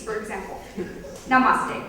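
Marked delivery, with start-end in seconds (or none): 1.3-1.8 put-on Indian accent. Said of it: "Okay, take Indians".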